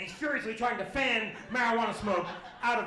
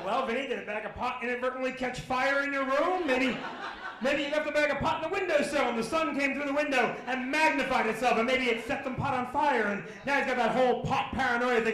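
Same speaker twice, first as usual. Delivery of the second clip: mock-innocent sarcastic theory; sarcastic dad; 2 semitones higher, 4 dB louder than usual. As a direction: spin the sarcasm out with a laugh. Dad mocking son sarcastically.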